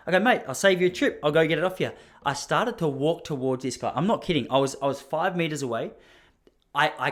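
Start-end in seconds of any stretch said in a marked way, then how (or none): 0.2-1.9 keen offer. Retold or imitated. Offering to take the parcel.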